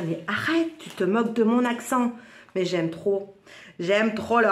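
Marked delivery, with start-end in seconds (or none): 0.1-2.1 friend's mock protest. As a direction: imitate a friend objecting to being teased. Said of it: "Elle va me dire".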